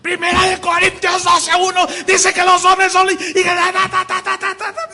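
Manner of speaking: high, loud shouted rapid-fire preaching; machine-gun preacher. Retold or imitated. Mimicking the rapid-fire preacher at the mic, shouting. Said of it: "agarran el micro".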